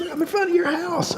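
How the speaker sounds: high mock drunk-woman voice; drunk caller. Drunk woman outside his house, high-pitched imitation. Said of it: "she's really drunk".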